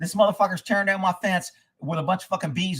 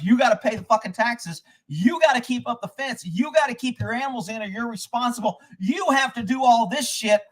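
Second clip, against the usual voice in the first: worked-up, higher-pitched list of demands; furious mimicry; 4 semitones higher than usual. Taxpayer mimicking the electric company's demands, furious. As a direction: hammer each imposed duty indignantly. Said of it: "I was freaking furious".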